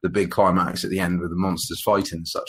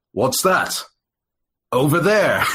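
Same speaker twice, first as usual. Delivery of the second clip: high, laughing mock dub line with a pause; halting dub voice; 8 semitones higher, 4 dB louder, slower than usual. Mocking the English dub of the film, laughing. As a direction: mimic a badly synced English dub, pausing mid-line. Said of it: "almost like a pause between".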